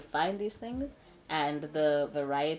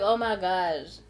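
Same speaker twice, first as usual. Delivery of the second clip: hammed-up rush to the rescue; excited reassurance; 6 dB louder than usual. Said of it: "So me, I'm like".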